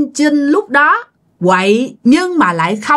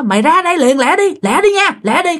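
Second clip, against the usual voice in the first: higher, urgent hurry-up call on the phone; 5 semitones higher than usual. Retold or imitated. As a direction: press him to come right now. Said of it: "nghe cái giọng của ảnh như thế". (giục gấp gáp, giọng cao hơn)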